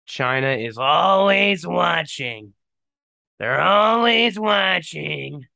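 mock ominous warning. Joking paranoid warning.

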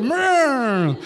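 hammed-up founding father noise; mock declaration. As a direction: imitate someone grandly declaring something. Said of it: "like he's declaring something".

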